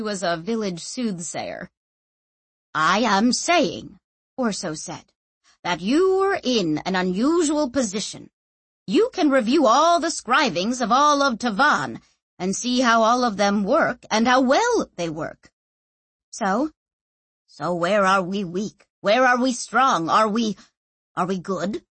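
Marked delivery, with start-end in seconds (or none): 2.7-4.0 slow, emphatic character line; insistent theorist. Acted. Narrator voices Orso pressing Clef. 5.6-21.8 emphatic, mildly worked-up figure; insistent theorist. Acted. Narrator voices Orso pressing Clef.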